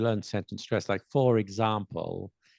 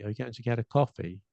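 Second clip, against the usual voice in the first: "are you going to" quick and reduced, "coffee" stressed; English sentence stress; 2 semitones higher, faster than usual. Shown as a demonstration. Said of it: "words that aren't important are not stress".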